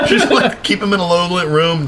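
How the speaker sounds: high giggling restart; clarifying the advice through laughter; laughing burst. Real, not acted. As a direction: crack up and then restate it.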